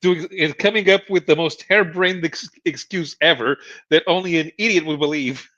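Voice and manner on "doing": slow, mock-exasperated René, rising louder; lightly hammed-up husband brushing off his wife; René's catchphrase. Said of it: "And they would go".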